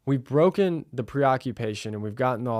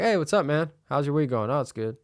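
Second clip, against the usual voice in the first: relaxed greeting; 3 semitones higher than usual. Shown as a demonstration. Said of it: "you're like".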